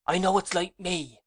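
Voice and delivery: put-on a girl's anguish breaking through; understated despairing cry; despairing exclaim. A narrator's reading. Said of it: "she exclaimed".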